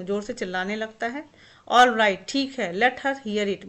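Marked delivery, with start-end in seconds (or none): 1.7-3.7 a loud, slowed shout of all right. Acted. Husband shouting back at his wife, loud and fed up. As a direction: let the whole room hear it, fed up. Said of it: "and shouting".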